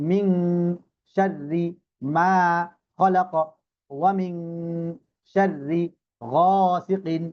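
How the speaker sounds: each word set apart by pauses; slow piece-by-piece Quran recitation. Shown as a demonstration. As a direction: recite broken into single words for the class. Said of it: "এভাবে করে আমরা ভেঙে ভেঙে".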